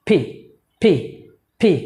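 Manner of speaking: পি with a strong puff of air; correct pronunciation. Shown as a demonstration. Teacher modelling a candle-blowing p, strongly aspirated. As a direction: burst air through both lips on পি.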